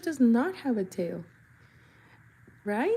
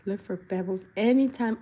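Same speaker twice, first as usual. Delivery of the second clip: voicing a character. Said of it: "He's like".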